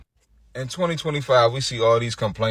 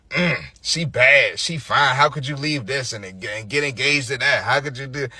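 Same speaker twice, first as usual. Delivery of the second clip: mocking quote. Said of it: "They posting the girl".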